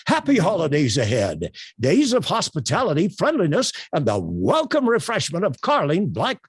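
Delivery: swooping, upbeat radio announcer read; projection, inflection, enthusiasm. Shown as a demonstration. Trainer redoing the ad for contrast, enthusiastic radio read. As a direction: project it and swing the pitch like an ad. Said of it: "I'm going to use projection, inflection, enthusiasm".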